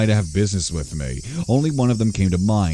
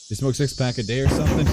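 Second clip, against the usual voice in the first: put-on lightly done New York smoker accent; a gruff old New York smoker, talking to a friend; faster than usual. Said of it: "I think it's New York accent, smoker, old man".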